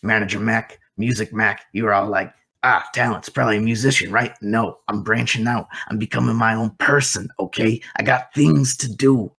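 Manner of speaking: lightly voiced self-important manager; lively in-character rambling, building to an insistent finish; chattering manager. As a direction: chatter on, pleading your own case. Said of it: "just, like, chattering nonstop".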